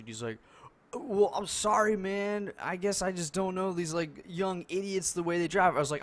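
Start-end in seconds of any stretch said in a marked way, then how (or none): 0.9-5.8 high mock apology; mocking old guy. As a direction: whine it like a grumpy old man.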